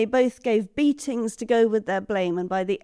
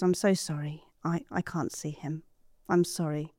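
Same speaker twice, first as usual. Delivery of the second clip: dejected apology; 4 semitones lower, 6 dB quieter than usual. Acted. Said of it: "she turned to go".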